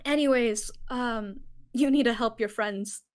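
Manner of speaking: B urging Galen to help his friends, mildly tearful; through tears. Acted. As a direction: push the words out while wiping tears. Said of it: "more ugly crying now".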